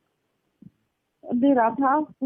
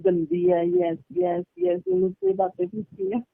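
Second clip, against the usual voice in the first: mocking gossip; 9 semitones higher than usual. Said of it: "उसने तो सबको बताया कि".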